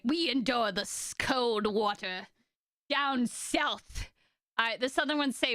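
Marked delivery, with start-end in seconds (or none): 0.0-4.1 slow, badly faked Russian accent; awful Russian accent. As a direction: drag out a mock Russian accent. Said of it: "that's an awful Russian accent".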